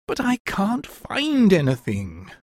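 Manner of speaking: high, slow, despairing wail. A narrator's reading. Helpless son complains to his mother, high and despairing. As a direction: draw it out in mock despair, pitched high. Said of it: "cried Higgins in despair".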